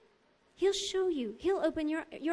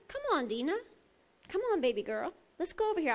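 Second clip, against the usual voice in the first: gentle coaxing; 4 dB quieter, faster than usual. Retold or imitated. God coaxing her like a child.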